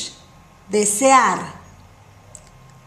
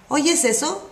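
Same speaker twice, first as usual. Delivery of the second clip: expressive question; 3 semitones higher, faster than usual. Shown as a demonstration. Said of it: "you have to do the expression, otherwise it will sound flat".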